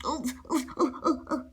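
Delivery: soft breath of dismay; hushed, soft little ohs; whispering. A narrator's reading. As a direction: whisper weakly as the voiceless bear. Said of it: "he whispers".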